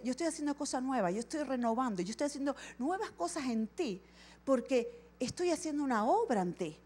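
whisper-close comfort to the listener; gentle voice of God promising renewal; soft, reassuring promise. Retold or imitated. God's promise, softer.

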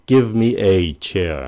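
"a" said as a full "e" with weight. Shown as a demonstration. Teacher showing viewers the emphatic version. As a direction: Give me a chair, leaning on each word. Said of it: "nói chậm hơn hoặc là nhấn mạnh".

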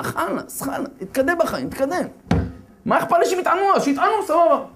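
high, scoffing brush-off; dismissive skeptic. Acted. A skeptic scoffs at the fast of Esther, high and dismissive. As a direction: wave it off like a skeptic.

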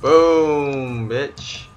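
loud, high victory shout; triumphant shout. Real, not acted. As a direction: shout it out as you win. Triumph after a kill.

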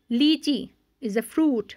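slow reading. Shown as a demonstration. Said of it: "आओ ज़ोर ज़ोर से पढ़ें".

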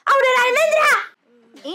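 drawn-out, crying call of her name; mock wail. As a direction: wail the name as if she died. Sim seems to have died.

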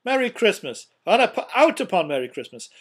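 loud, exasperated tirade; indignant rant. A narrator's reading. Scrooge rails at his nephew about Christmas, indignant. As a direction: build a case in loud indignation.

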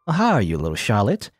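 nasally nerdy doctor; a light nasal nerd voice. Acted. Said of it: "my voice that I gave to Huxley".

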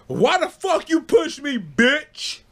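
high, mock-furious mom voice; imitating angry mom. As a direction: play the mom accusing Shirley. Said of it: "She said".

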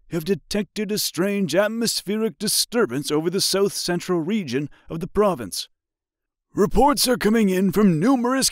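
high muffled emergency broadcast; muffled radio voice. A narrator's reading. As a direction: read like a crackly news bulletin. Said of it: "followed by a muffled voice".

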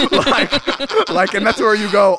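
very high, laughing lead-in. Real, not acted. Recalling Leo chasing his dog, very high and laughing. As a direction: giggle through the words.

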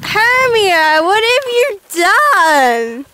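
slow, wailing mock despair; mock dismay. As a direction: drag it out like a hammy lament. Finds dog stuck in bushes.

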